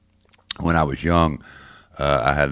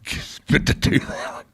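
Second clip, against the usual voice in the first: laughing; 8 semitones higher, much slower than usual. Real, not acted. Laughing about his lost tooth.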